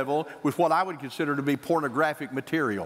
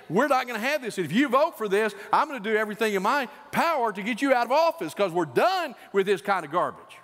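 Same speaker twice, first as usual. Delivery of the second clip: higher, insistent ultimatum; righteous anger; 5 semitones higher than usual. Acted. Voter calling congresspersons to object, righteously angry. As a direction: lay down the law to an elected official. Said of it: "righteously angry and say".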